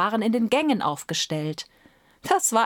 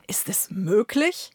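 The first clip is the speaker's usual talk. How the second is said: slow breathy whisper of disbelief; astonished whisper. Acted. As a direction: hush it, unable to believe. Steward astonished at plain bird.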